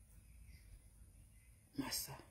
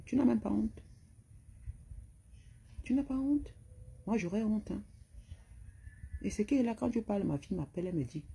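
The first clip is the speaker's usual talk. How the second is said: indignation aiguë; 6 semitones higher than usual. Real, not acted. Indignée, voix montée.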